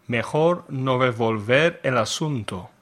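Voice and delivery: Spanish with a bad accent. Real, not acted. Teacher quizzing learners on idiom translations, bad Spanish accent. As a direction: read the Spanish in a non-native accent. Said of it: "in my bad Spanish accent".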